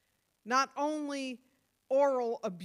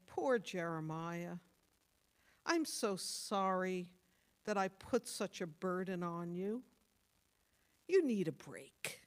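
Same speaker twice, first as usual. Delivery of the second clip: lower, softened imitation of pitying comfort; mock sympathy; 3 semitones lower than usual. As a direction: pretend to console, gently and low. Imagined sympathetic answer God doesn't give.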